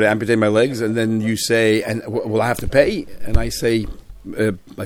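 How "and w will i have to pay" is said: student asks "will I have to pay", rising on PAY; "pay" lifted at the end as a question. Acted. Rabbi voices the asker, questioning tone. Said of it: "said in a question mark tone".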